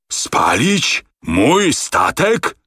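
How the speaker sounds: horrified he can't believe it; outraged disbelief. A narrator's reading. (oburzone niedowierzanie, dużo wyżej)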